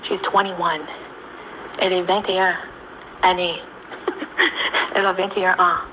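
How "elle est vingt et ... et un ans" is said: French aside. Real, not acted. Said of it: "pardon my French".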